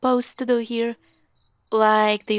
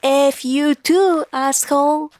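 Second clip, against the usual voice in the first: slow, louder snap at brother; angry retort; 5 semitones higher, 7 dB louder than usual. Acted. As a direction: bite back hard at him.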